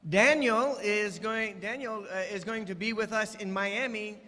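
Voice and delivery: ordinary talk, nothing marked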